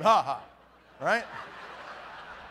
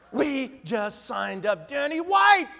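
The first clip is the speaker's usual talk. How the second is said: retold excited announcement; 3 semitones higher, 4 dB louder, much slower than usual. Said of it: "Calm down".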